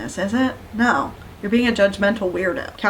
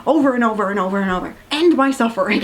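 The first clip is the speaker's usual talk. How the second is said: exasperated; 2 semitones higher, faster than usual. Real, not acted. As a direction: beg for it to end. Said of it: "And I'm like".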